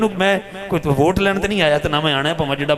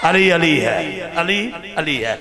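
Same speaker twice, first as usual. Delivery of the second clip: rousing cry; 3 semitones higher than usual. Real, not acted. Crowd-rousing exclamation after story.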